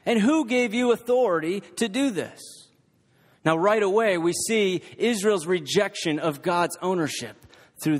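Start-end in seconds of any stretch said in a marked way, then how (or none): 0.0-2.4 challenging question. A narrator's reading. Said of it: "they asked".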